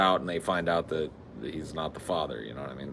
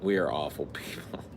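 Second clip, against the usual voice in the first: whisper; 5 semitones lower, 6 dB quieter than usual. Real, not acted. Guilty aside.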